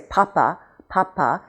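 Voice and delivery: "papa" with a burst of air on P; puffed English P. Shown as a demonstration. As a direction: demonstrate aspirated Ps in "papa". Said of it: "quite a burst of air".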